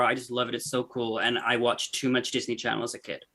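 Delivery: put-on muddled American accent; host intro in a slightly muddled American voice. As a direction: attempt a generic, every-region American accent. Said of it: "That was a stellar American accent".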